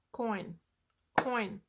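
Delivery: "Coin" said as one single beat; one beat per word. Shown as a demonstration. Teacher clapping out a word, one beat per word. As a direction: give "Coin" one unbroken syllable, then repeat it. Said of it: "One word".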